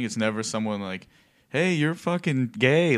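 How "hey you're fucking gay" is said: higher, drawn-out imitation jeer; mock heckler shout. Imitating someone shouting at a comic, mock heckle. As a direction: call it out slowly like a heckler. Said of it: "shouting out or something".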